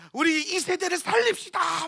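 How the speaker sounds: slow, drawn-out mock prayer cry; impassioned prayer plea. Big pastor drops to his knees to pray, slow impassioned plea. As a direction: draw out the plea as a kneeling preacher would. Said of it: "막 그러면서 막 기도하기 시작하는 거야".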